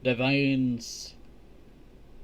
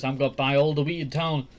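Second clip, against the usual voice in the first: mock mother, first take; 3 dB louder, faster than usual. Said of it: "his mother's just saying".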